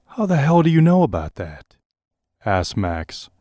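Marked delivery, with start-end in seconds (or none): 0.1-1.8 high, loud shocked demand; shocked outburst. Acted. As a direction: blurt it out, stunned.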